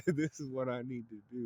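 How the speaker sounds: giddy maniacal glee; manic laugh. Retold or imitated. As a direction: laugh like power's gone to his head. Gojo on a power high.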